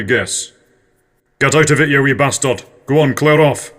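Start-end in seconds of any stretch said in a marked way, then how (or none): 1.4-3.7 gruff Scottish telling-off, a bit louder; stern neighbour. Retold or imitated. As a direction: shoo a kid off your doorstep. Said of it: "That's my neighbour, Ron Doorbell, giving a young lad a stern talking to".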